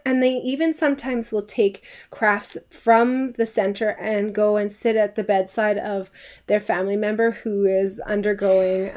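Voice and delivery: usual speaking voice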